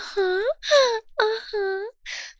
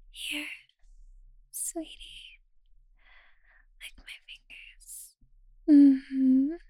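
intimate whisper; 3 semitones lower than usual. Acted. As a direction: linger on each word in a hush.

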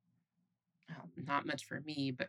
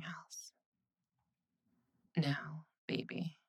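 whisper. Acted. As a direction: murmur it to calm him down. Girlfriend soothes partner in bed.

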